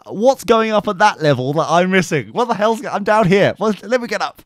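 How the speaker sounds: a hint of a mincing camp whine; mildly camp drunk voice. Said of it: "in the most campest voice ever".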